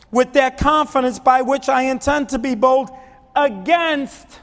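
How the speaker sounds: high, loud impassioned sermon; full-force preaching. Real, not acted. Preacher urges church on Paul's begging, forceful preaching. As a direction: drive every phrase home to the congregation.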